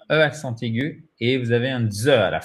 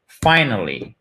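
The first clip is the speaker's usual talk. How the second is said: "Finally" with weight on "fi", falling; stress on first syllable; 2 semitones lower, slower than usual. Shown as a demonstration. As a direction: land on "fi" in "Finally", let the rest drop. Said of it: "L'accent tonique est sur la première syllabe".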